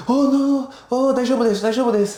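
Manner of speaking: high, bright mock Japanese chef reply; imitating the chef. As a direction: play the sushi chef brushing it off, way up high. Sushi chef answering retold complaint.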